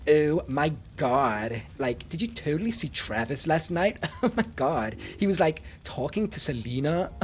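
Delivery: mock valley girl gossip; lightly voiced gossiping American teen. Streamer imitating American girls for chat, mild valley girl. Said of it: "I think America's like".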